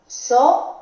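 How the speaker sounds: "asociáis" split as a, so, ciáis; división en sílabas. Shown as a demonstration. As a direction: say "asociáis" syllable by syllable with long pauses. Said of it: "si separamos esta, eh, palabra en sílabas". ("asociáis" sílaba por sílaba: a, so, ciáis)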